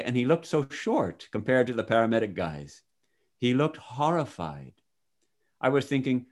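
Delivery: measured, expressive first-person storytelling; testimony read aloud. Acted. Reader shares a man's near-death account with listener, expressive reading. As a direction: read it out as a vivid account, phrase by phrase.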